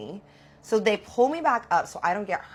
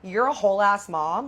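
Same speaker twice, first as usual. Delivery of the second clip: sassy telling-off; 5 dB louder than usual. Retold or imitated. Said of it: "I'm like".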